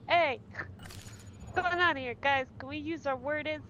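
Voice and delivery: slow, drawn-out gentle peacemaker dog; pacifist dog voice. Retold or imitated. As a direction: plead like a timid dog breaking up a fight. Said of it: "Noodles is more of the pacifist".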